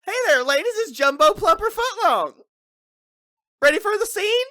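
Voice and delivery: high, loud, sleazy come-on; hammed-up porn star voice. Co-host voicing Jumbo Plumper Footlong, high and loud. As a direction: play the cheesy adult film star greeting the ladies.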